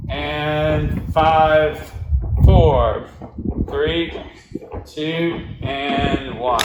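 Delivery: energetic countdown. Real, not acted. Loud countdown to finish set.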